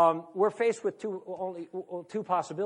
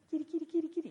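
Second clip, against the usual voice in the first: high sing-song kitty call; high cat-calling voice; 11 semitones higher, 5 dB quieter, much faster than usual. Pretend. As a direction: coax the cat over, high-pitched.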